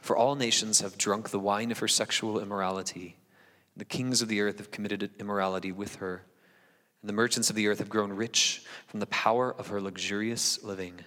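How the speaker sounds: measured solemn Bible reading; scripture reading. Acted. Pastor reading Revelation to the church, solemn and measured. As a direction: read the text to the congregation with weight.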